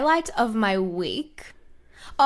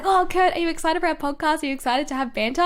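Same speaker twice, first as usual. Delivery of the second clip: higher, bubbly retold question; acting out eagerness; 6 semitones higher than usual. Retelling how she asked boyfriend about the podcast, eager and excited. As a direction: imitate yourself gushing with anticipation.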